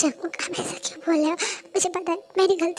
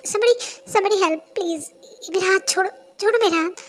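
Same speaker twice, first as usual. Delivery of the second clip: louder, frightened pleading; scared cries for help; panicked plea; 3 semitones higher, 5 dB louder than usual. Acted. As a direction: cry for help while pulling free. Girl struggling to break free.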